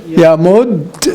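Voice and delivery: یا مد said very slowly with the ی held and doubled; slow tajweed drill of یا مد; doubled ya demo. Shown as a demonstration. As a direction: stretch یا مد, holding the ی. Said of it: "دو، ایک ساتھ نہیں آپ کو آواز نکالنی ہے".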